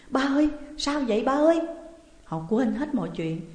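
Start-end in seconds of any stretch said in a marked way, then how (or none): 0.1-1.6 high, alarmed call to father; panicked. A narrator's reading. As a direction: call out in fright for your father. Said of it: "thì hốt hoảng". (hốt hoảng gọi ba)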